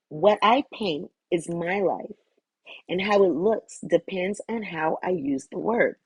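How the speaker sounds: slow, deliberate affirmation reading; measured recital. Real, not acted. Reader sharing a channeled message about words and life, measured recital. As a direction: recite it in spaced-out phrases.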